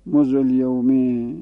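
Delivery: "مزل یومه" said slowly, the damma of "مزل" held; slow careful "مزل یومه"; Arabic quote. Shown as a demonstration. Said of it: "یعنی نمیگم".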